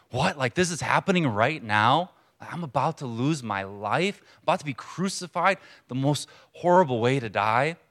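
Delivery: mild imitation of panicked disbelief; rising, incredulous mock alarm, lightly played; freaking out. Preacher imagining himself as the condemned prisoner, freaking out. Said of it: "I would be freaking out".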